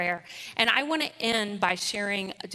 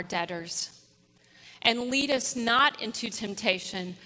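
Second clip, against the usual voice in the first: steady, measured group recitation; congregational prayer. Acted.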